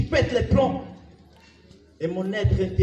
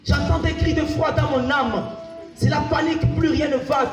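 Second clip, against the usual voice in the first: raised, driven poetic cry; urgent declamation; 3 semitones higher than usual. Acted. Poet hearing cries in the soul, urgent declamation. Opening repeated with more force.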